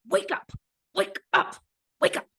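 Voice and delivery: put-on high insistent little child's urging; a small kid pleading wake up; toddler voice. Toddler waking mom up.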